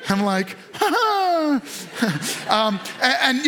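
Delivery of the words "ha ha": high "ha" sliding down; high, falling mock laugh; mock laugh back. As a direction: answer the baby with a put-on laugh. Parent's answer to the baby.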